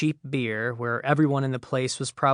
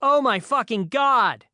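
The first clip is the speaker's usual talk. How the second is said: put-on high, slow, loud teen outburst; exasperated outburst; 10 semitones higher, 5 dB louder, slower than usual. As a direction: blow up in disbelief. Teen freaking out at distance.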